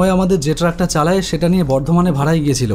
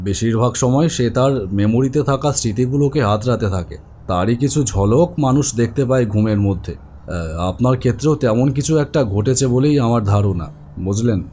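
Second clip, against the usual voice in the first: calm doctor; 5 semitones lower than usual. Acted. Doctor explains dreams calmly.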